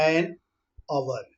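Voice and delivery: slow and soft, each word drawn out; slow motion. Shown as a demonstration. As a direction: pull every syllable out slowly. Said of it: "इसकी slow motion देखिए".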